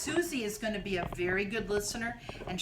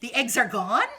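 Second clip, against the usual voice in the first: hopeful question; 3 semitones higher, 9 dB louder than usual. Acted. Elephant hopeful.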